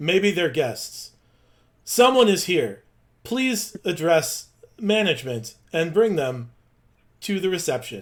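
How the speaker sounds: loud, high, grand, blaring, booming announcer voice. As the door opens, a voice greets the arriving group, loud and booming. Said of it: "you hear a loud, a booming voice say".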